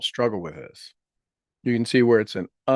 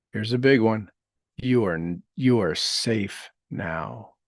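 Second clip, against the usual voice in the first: guided meditation; slower than usual. Acted. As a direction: gently lead listeners through healing words.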